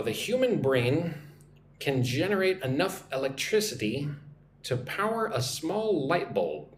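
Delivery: careful teacher's model reading in phrases; nice and slow. Shown as a demonstration. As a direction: read it slowly for learners, pausing between phrases. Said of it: "nice and slow".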